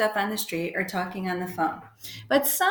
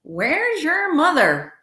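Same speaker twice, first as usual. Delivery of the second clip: higher, slow drawn-out challenge; suspicious hotel clerk; 7 semitones higher, 4 dB louder, much slower than usual. A narrator's reading. Squinting clerk challenges a child visitor, slow suspicious question. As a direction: stretch the question out around a cigar.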